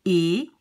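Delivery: "E" said as closed ay; "E" like the vowel in say; closed French é. Shown as a demonstration. Teacher explains the rising accent, closed é. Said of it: "if you have an accent going up".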